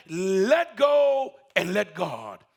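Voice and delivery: slow, loud call from God. Acted. God repeats his command, slow and loud. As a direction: boom it out slowly. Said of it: "just said".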